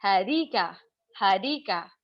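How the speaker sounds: हदीका with a hard English d, flat ending; English accent. Shown as a demonstration. Teacher shows students how an Englishman says her name, English accent. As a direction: say हदीका as a native English speaker would. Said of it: "अंग्रेज बोलेगा ना".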